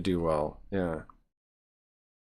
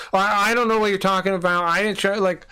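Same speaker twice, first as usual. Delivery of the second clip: higher, mocking whiny streamer voice; 6 semitones higher than usual. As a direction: ham up the defensive streamer. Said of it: "He's like".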